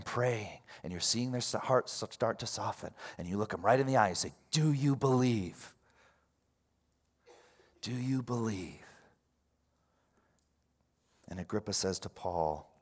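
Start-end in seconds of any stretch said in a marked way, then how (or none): 4.5-8.8 slow, drawn-out, searching question; earnest direct appeal. Acted. Asking someone right in the eye to believe, earnest. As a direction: ask slowly and leave room after it.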